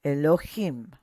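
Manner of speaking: "Elohim" with the last syllable, HIM, emphasized; stressed syllable. Shown as a demonstration. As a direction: lean on the final "him" of "Elohim". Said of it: "we're gonna emphasize that".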